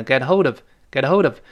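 "get hold of" run together, d flowing into of; linked of. Shown as a demonstration. Teacher joins the words, "get hold of" as one piece. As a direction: link "hold" straight into "of" in "get hold of". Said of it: "再跟of连读".

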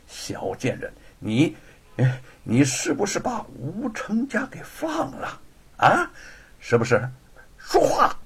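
seething start, rising to a high demand; angry scolding. Acted. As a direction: interrogate her in mounting fury. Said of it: "指着白雪燕骂道". (怒骂逼问)

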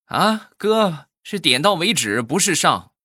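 high, prim correcting voice; nerdy correcting voice. Acted. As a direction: correct him with smug pedantry. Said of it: "她男朋友就说".

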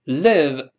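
"live" with a short lax i; corrected short i in "live"; short-vowel "live". Shown as a demonstration. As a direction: say "live" as in "give". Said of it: "live短音".

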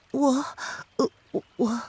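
high, halting stammer; hesitant. Acted. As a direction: falter shyly over the first word. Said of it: "还是犹豫了一下". (犹豫地吞吞吐吐)

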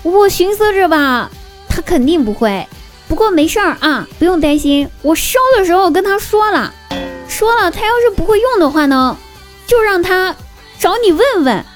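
a hint of a chatty mom; lightly voiced mom.

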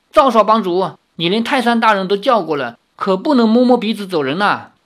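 high, loud heckling call. Acted. Heckler loudly taunting the young chief. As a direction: shout the taunt across the crowd. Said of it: "彭霸天立刻大声说".

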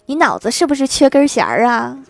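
laughing while retelling the goddess's jab; laughing through quote. Retold or imitated. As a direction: fight back a laugh as you quote it. Quoting insult, laughing.

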